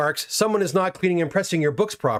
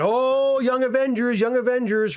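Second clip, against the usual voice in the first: imitating excited daughter; 6 semitones higher, slower than usual. Quoting daughter's excited reaction.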